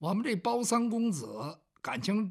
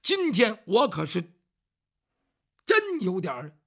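servant explaining himself, growing louder and anxious; flustered servant; 4 dB louder than usual. Acted. Bao Xing explaining his stutter to the young master, flustered and increasingly louder. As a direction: get more worked up as you explain, ending in a nervous laugh.

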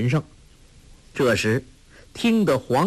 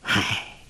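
breathy weary sigh; 2 semitones lower, 4 dB quieter than usual. Acted. Wang sighing over a foolish disciple, breathy sigh. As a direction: let out a tired sigh. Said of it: "王真人叹道".

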